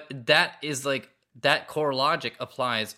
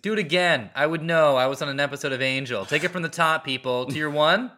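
bossy mock director; 2 semitones higher, 6 dB louder than usual. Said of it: "And he's like".

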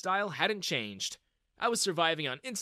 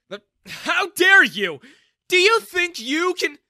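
loud, slow enraged father shouting; furious shout; 15 dB louder, slower than usual. Acted. Dad yells at Ethan over the prank, enraged. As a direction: bellow it at the young man in outrage.

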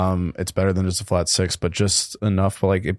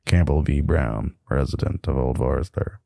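low, unhurried label read; sultry voice; 3 semitones lower than usual. Acted. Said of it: "read in the nice, sultry voice".

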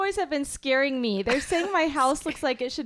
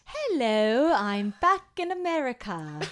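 quick put-on London accent. Shown as a demonstration. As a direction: say it like a Londoner, British vowels. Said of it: "Do your, do your London accent".

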